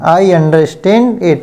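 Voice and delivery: slow, careful model sentence; slow demo. Shown as a demonstration. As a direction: say each word slowly for learners. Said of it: "मेरी यह समझ में आ रहा है". (धीमे उदाहरण वाला वाक्य)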